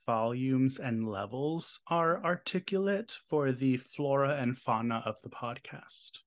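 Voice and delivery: slow, pompous overarticulated words; mock fancy podcast speech. Host mock-lecturing co-host in fancy podcast speech. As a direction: savour every fancy word like a snob. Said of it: "It's advanced podcast speech".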